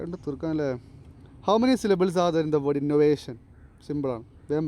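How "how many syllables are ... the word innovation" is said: slow dictation. Shown as a demonstration. Teacher reads out quiz question.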